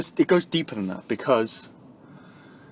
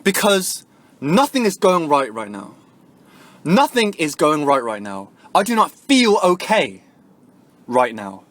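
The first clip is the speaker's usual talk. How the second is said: raised, louder angry venting; real anger pushing the voice up; livid; 3 semitones higher, 5 dB louder than usual. Real, not acted. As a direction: let the frustration spill over. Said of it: "I am fucking livid right now".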